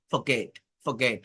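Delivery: ফরগেট with the r barely sounded, low and soft. Shown as a demonstration. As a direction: say ফরগেট softly, easing over the r. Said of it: "এই আর এর উচ্চারণটা এভাবে হয় না".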